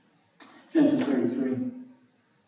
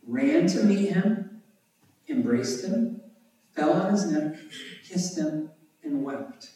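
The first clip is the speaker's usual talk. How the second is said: "Ran to meet him" raised and slowed, then pauses between the actions; emphatic repetition; 4 semitones higher than usual. A narrator's reading. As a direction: repeat each action separately, from "Ran" to "wept". Repeats key verse for emphasis.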